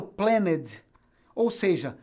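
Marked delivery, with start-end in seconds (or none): 0.0-0.8 "planned" wrongly split as PLAN-ned; mistaken voiced E. Shown as a demonstration. Teacher showing what not to say, "planned" with E voiced. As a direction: sound the E in "planned" as a second syllable. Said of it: "Eu não falo planned".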